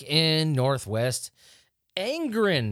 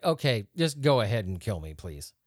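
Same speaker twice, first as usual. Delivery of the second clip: resigned; 7 semitones lower than usual. Retold or imitated. Podcaster imagining being forced to carry the dog, resigned and fading. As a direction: give up completely, trailing off. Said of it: "I would just be like".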